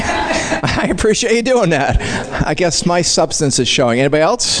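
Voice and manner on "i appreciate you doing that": slower, laughing through the thanks; chuckling repeated thanks. Shown as a demonstration. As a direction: say it again, amused and emphatic. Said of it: "and I appreciate you doing that".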